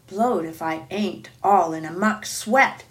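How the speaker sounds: puffing giant, winded; out of breath. Acted. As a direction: speak between puffs. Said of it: "puffing like a ... railway engine".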